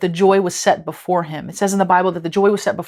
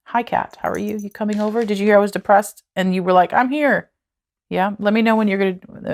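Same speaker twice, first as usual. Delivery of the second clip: talking to the cat; 3 semitones higher than usual. Real, not acted. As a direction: coo at the cat.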